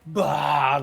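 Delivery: loud burst of dragon fire; imitated fire breath. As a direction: blast out a mock fire breath.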